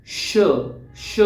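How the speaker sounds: breathy isolated श; demo sh sound. Shown as a demonstration. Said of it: "दो fingers का आप use कर सकते हैं".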